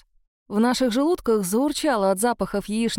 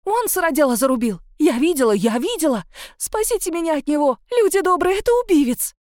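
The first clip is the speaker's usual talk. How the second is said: higher and louder, building to a scream; hysterical shrieking; 7 semitones higher, 4 dB louder than usual. A narrator's reading. Witness shrieking to the crowd for rescue. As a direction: wail for the crowd to save her. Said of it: "визжала тётка".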